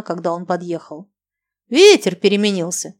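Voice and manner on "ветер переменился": sneering, mocking question. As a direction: taunt her with it. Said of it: "с издёвкой спросил он".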